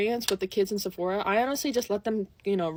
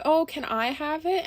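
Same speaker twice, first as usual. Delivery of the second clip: higher, slow little pout; 4 semitones higher, slower than usual. Retold or imitated. Little girl asks a stranger for her lip gloss, pouting. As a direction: plead with a drawn-out pout. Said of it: "She starts pouting".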